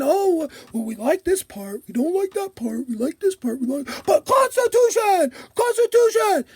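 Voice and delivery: lightly voiced dumb patriot; mocking gun nut. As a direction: sneer at them in a dumb voice. Mocking gun nuts' cherry-picking.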